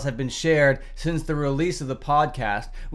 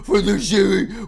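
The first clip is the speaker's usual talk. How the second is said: mock-sincere stumble; 2 semitones higher than usual. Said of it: "with utter contempt".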